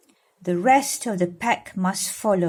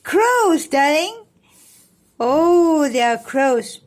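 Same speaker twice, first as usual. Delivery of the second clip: higher, louder eager call; excited pointing; 7 semitones higher, 6 dB louder than usual. Acted. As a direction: show the child the crows.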